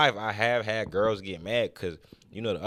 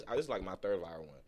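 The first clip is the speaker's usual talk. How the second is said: usual speaking voice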